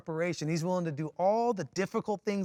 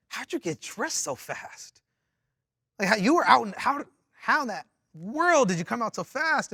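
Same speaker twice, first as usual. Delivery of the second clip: confused; 3 semitones higher than usual. Retold or imitated. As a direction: fumble the question in mock bewilderment. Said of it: "I'm, like, so confused".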